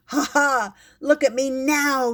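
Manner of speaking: loud, high triumphant yell; proud kitty yelling. Acted. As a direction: crow it out so everyone hears. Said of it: "yells Kitty".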